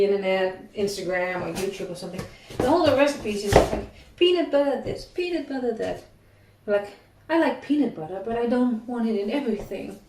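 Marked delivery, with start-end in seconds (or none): 4.2-6.0 higher-pitched, sing-along mock listing; mock recipe chorus. Baker fed up with peanut butter recipes online, mocking. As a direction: parody the endless repetition of a trend.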